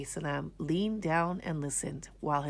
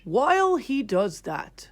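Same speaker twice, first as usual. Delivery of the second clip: 1 wise king speaking; 2 semitones higher, 4 dB louder than usual. Acted. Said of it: "Then the king spoke".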